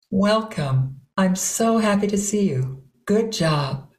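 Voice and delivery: unhurried, heartfelt welcome; heartfelt water voice. Shown as a demonstration. Teacher voicing what hearts say, warm water voice. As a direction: say it straight from the heart. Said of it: "things your heart might want to say".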